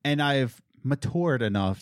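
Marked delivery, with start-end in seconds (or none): 0.8-1.4 MATURED said "ma-TOORD", hard t; smiling mature. Real, not acted. Owning up to growing older, MATURED as "ma-toord". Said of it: "can say mature without smiling".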